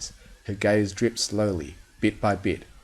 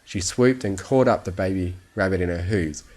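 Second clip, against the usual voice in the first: ordinary delivery, nothing marked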